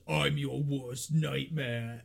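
drawn-out, menacing demon; slow demon voice. Retold or imitated. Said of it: "the demon goes".

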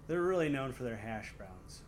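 flat Michigan vowels in hash browns; Michigan accent. Real, not acted. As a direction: say it like a Michigan local. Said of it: "I kinda said it, like, with my Michigan accent".

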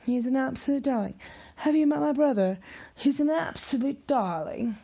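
lightly hammed-up doting sister; imitating her. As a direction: gush about the brother, sweet and bright. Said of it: "in her words".

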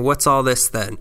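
light mock British bobby accent; a hint of a British constable. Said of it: "speak with a British accent".

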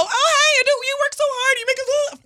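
high, sugary fake-friendly greeting; mock the sweetness she won't give anymore; fake sweet greeting. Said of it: "Ain't no".

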